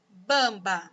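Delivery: "bamba" with the nasal m sounded clearly; teacher reading aloud; careful reading. Shown as a demonstration. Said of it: "observe estas palavras".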